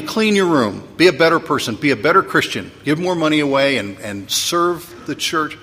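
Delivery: mock scolding preacher, slowing on the last line; scolding bad dog sermon. Shown as a demonstration. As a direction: lecture them like a naughty dog. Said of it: "that's what I call a bad dog sermon".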